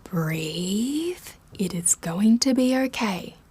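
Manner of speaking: hushed calming whisper. Acted. Laura soothing panicked Kyle, whispering. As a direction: breathe it to him, soothing.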